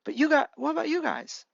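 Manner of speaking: lightly acted hesitation, restarting the words; hesitant Mirio. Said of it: "Mirio hesitantly said".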